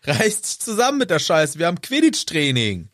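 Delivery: a hint of a bossy captain telling him off; mock Angelina scolding. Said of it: "als Angelina".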